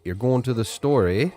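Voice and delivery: playful Canadian accent; Canadian question. Shown as a demonstration. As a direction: turn a statement into a Canadian question with eh. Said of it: "Or you could say".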